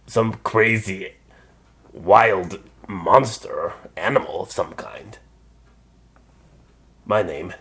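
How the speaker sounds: big friendly giant, booming; a kind giant speaking warmly; gentle giant voice. Acted. Giant character voice.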